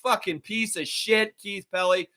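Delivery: heated, ranting tirade; building raw furious rant. Real, not acted. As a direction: tear into him with real anger. Holds an angry rant.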